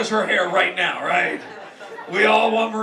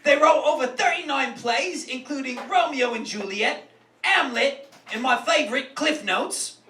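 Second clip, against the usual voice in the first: lightly put-on British accent; host in a half-committed British voice; mock British accent. Roast host listing Shakespeare's plays, mock British accent.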